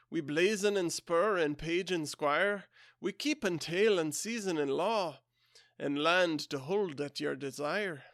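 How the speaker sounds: a modest Scottish lilt on a ballad read aloud; attempted Scottish accent. Podcaster reading a Kipling ballad to listeners, light Scottish accent. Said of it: "I'll do my best at a Scottish accent".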